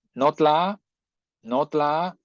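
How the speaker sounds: notla slow, stress on the first syllable no; stress demo. Shown as a demonstration. Teacher shows class where notla is stressed, slowly. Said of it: "ahí otra vez conservamos el acento".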